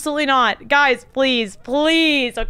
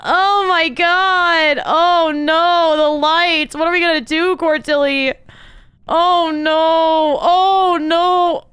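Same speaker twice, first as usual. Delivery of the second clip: panicked; 4 semitones higher, 4 dB louder, much slower than usual. Real, not acted. Killed in the dark, panicking.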